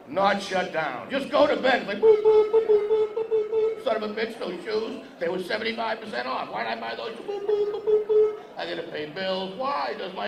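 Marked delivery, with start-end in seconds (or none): 2.0-3.8 squeaky repeated boops, high; high boop noises. Pretend. Comic telling women about bedtime, squeaky boop noises. Mimicking racing thoughts at bedtime. 7.1-8.3 squeaky repeated boops, high; high boop noises. Pretend. Comic telling women about bedtime, squeaky boop noises. Racing thoughts again.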